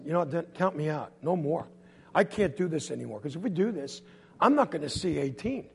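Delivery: low, soft declaration of surrender; resigned. Acted. Kid telling brother to count him out, low resignation. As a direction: give up quietly. Quitting after the fall.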